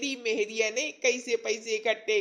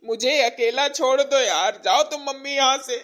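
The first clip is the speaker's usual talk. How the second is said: fed-up outburst; 6 dB louder than usual. Acted. Son fed up with laughing mother.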